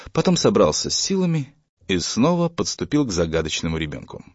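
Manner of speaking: plain reading voice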